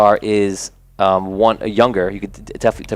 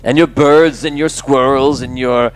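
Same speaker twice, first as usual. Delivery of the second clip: slow, drawn-out jeering challenge, rising to a higher taunt; taunting bully; 4 semitones higher, slower than usual. Acted. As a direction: dare him to race, mockingly.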